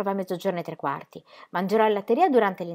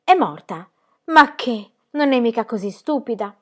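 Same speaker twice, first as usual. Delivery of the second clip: esclamazione colpita; 5 semitones higher, 7 dB louder than usual. A narrator's reading. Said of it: "esclamò la ragazzina colpita".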